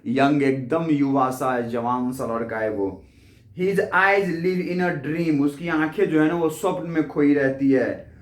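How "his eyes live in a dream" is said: each word read out slowly and clearly; slow poem reading. Shown as a demonstration. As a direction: read the line slowly, as for a class. Teacher reads poem line aloud. (धीमे-धीमे कविता पढ़ना)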